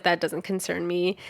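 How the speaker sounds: retold polite brush-off, softly spoken; nicest way possible. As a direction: play back a soft, tactful refusal. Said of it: "in the nicest way possible".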